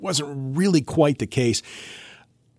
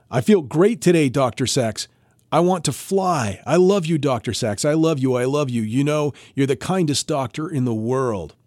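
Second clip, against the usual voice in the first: a touch of breathless joy, higher; breathless gushing; 3 semitones higher than usual. Retold or imitated. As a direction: gush to the doctor, mildly breathless. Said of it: "One day she said breathlessly".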